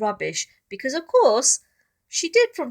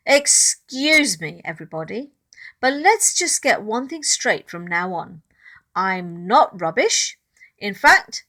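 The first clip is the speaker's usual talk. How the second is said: bold declaration; 6 dB louder than usual. Acted. Ruby stands up to bullies.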